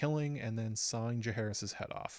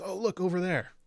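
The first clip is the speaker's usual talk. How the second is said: higher and louder, a mock eager "oh, look"; retold excitement; 7 semitones higher, 4 dB louder than usual. Cheese spotting the royal twins, mock excited call. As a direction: point it out like a thug who just spotted the prize. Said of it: "Cheese gets excited and says".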